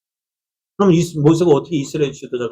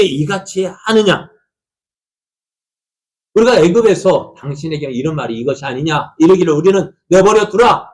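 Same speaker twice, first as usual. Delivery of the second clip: complaining people; 5 semitones higher, 5 dB louder than usual. Acted. People complain angrily to Moses.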